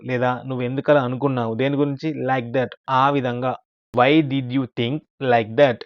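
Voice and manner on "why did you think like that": slow model reading. Shown as a demonstration. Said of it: "teacher models English sentence slowly".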